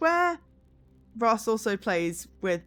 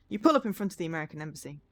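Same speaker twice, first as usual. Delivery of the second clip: second-person game narration, clearly read; storyteller describing a new passenger; story narration; 3 semitones lower, 4 dB quieter than usual. A narrator's reading. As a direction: read the story aloud with gentle lift. Reads game story aloud.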